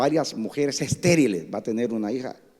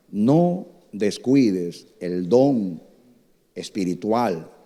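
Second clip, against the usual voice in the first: scripture reading; much slower than usual. Acted.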